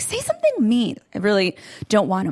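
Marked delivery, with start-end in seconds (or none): 0.0-1.0 higher insisting. Retold or imitated. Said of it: "I'm like".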